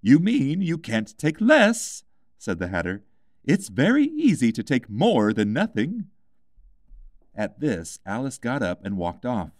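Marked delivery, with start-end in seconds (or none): 0.0-6.1 high, louder Hatter; a mad hatter posing a riddle; lightly voiced eccentric Hatter. A narrator's reading. Hatter retorts.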